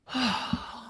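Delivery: a releasing breath out, falling away; grounding sigh. Real, not acted. Podcaster grounding herself with listeners, releasing sigh. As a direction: let the tension drain out on one long sigh. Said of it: "you can begin to hear my voice shift".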